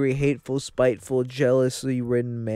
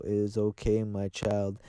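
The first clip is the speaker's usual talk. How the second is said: mock serene Jesus; 3 semitones lower, 6 dB quieter than usual. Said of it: "he's gonna go".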